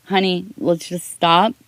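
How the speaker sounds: put-on high, gentle and reassuring, calming a rushing child; mother soothing her excited daughter, tender and high; soothing mom to daughter. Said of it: "I tell her".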